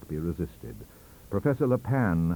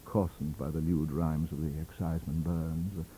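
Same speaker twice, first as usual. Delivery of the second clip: cool scorn. Acted. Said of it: "high-bred scorn and unruffled temper".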